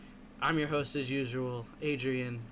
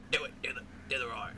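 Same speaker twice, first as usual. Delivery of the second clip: whispering; 2 semitones lower, 3 dB quieter, much faster than usual. Real, not acted. Whispered nudge to co-host.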